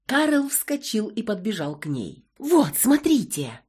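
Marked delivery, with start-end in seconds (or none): 2.4-3.6 excited. A narrator's reading. Excited about the find.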